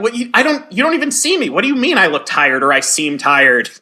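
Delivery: sputtering pretend offence; mock offended reaction. Acts out offended reply to remark.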